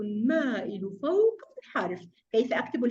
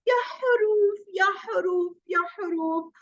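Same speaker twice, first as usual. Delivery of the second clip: tag; 4 semitones higher, slower than usual. Acted. Characters calling out to the letters.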